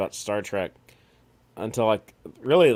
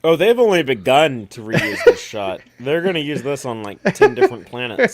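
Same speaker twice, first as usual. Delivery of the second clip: laughing shout; 5 dB louder than usual. Real, not acted. Joking about reused shot, laughing.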